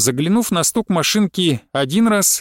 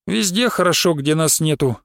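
usual speaking voice

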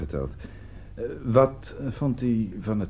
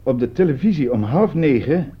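higher and louder, building to the punchline; triumphant reveal; 8 semitones higher, 7 dB louder than usual. Acted. Detective springing the trap on the suspect, triumphant. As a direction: read the listing out like a winning card.

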